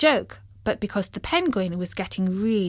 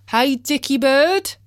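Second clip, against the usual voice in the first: higher, louder call; 6 semitones higher, 6 dB louder than usual. Acted. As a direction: hail the bird cheerfully. Calling out to sparrow.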